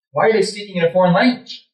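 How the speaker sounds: alarmed questioning. Retold or imitated. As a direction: ask it in rising alarm. Same words, now alarmed question.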